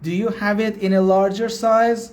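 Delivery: slow, carefully spaced English; slow teaching demo. Shown as a demonstration. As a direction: spell it out slowly for learners. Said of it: "حالا اینو ترجمه بفرمایید".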